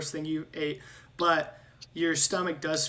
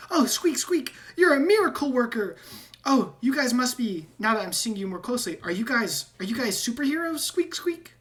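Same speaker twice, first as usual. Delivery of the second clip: high, squeaky rat voice with squeaks; squeaky rat man; 8 semitones higher, 6 dB louder than usual. Acted. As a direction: squeak like a nervous talking rat, much higher. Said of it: "and he goes".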